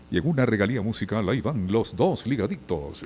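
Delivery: lightly put-on pompous radio announcer, brisk start; engolado announcer. Radio veteran showing the host sixties voices, mock engolado announcer. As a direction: parody an old music-radio DJ, lightly. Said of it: "Esa, esa voz engolada, así".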